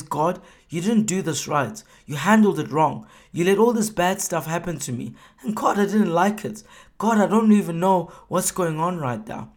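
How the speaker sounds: mildly hammed-up grievance; blaming complaint. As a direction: Job blaming God for his pain, accusing. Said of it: "he starts blaming God".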